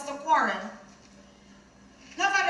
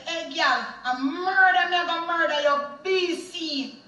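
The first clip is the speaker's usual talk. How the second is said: high, loud snarled threat; retold angry threat; 3 semitones higher, 3 dB louder than usual. Driver threatening his passenger, retold as a raised angry threat. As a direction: threaten her like a furious attacker. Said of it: "He then in anger said".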